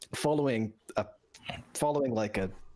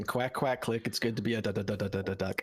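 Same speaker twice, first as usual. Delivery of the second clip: spoken mimicry of a stuttered song hook; quoting song ending. Guest recites his favorite ending to the host, lightly imitating it. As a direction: stutter the last word like the song's ending. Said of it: "I like the ending".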